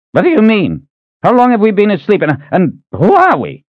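put-on high, agitated old man's voice; alarmed old man. Old Reuben grilling the big stranger, high and alarmed. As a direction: fire off suspicious questions like a fussy old man.

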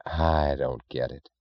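soft, slow and helpless; quiet helpless admission to Galt; genuine helplessness. A narrator's reading. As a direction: let the words sag, baffled and beaten. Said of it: "in a tone of genuine helplessness".

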